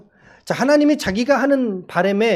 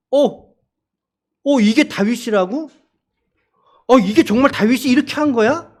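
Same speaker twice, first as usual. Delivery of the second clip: puzzled, rising disbelief; a touch of shocked doubt at David; mock surprise; 3 semitones higher, 4 dB louder than usual. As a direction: question it in disbelief. Congregation's puzzled reaction acted.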